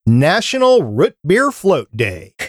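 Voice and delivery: "Root" with the short vowel of "foot"; Minnesotan "root". Real, not acted. Host repeats the day for puzzled co-hosts, "Root" rhyming with "foot". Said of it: "never once heard it pronounced like that".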